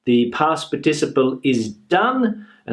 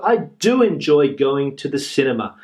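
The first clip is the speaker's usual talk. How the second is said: "do" given extra weight before enjoy; stress on do. Shown as a demonstration. Teacher repeating the emphatic "do" example. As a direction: lean on "do" to show emphasis. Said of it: "by putting the do in front".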